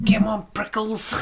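put-on high, slow cooing to the baby hedgehogs; coaxing officer. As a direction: coo at them like tiny pets, drawn out.

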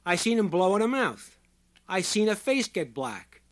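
loud, high testimony; roaring. A narrator's reading. Short man accusing the doctor before a crowd, roaring. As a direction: shout each statement over a wailing siren. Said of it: "His voice was a roar, easily overriding the penetrating shriek".

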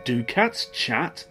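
ordinary delivery

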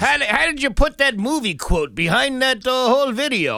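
put-on high, whiny, confused old man; old prospector. Imitating confused old folks.

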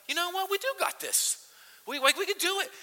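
high, loud rallying cry; fired-up self-encouragement. Retold or imitated. Pastor heartened by daughter's text, fired-up rallying cry.

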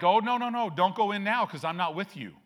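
a hint of an exasperated God; God refusing. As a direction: turn them down firmly as God. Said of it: "And God's like".

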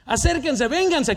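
street-preaching cry to the crowd; retold shout. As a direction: escalate the call, urging them closer. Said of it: "comencé a gritar".

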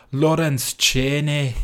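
lightly imitated Scottish accent. Retelling RuPaul's only Scottish words, in a mock Scottish accent. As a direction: put on a bit of a Scottish accent. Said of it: "with a Scottish accent".

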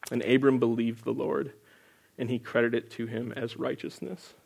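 measured, solemn Bible reading; scripture reading. Acted. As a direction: read the passage steadily, like from the pulpit. Reads Genesis passage aloud.

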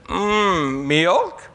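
pleased, high mock-confident em lao; proud reply. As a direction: answer eagerly, sure you got the word right. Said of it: "And so I said".

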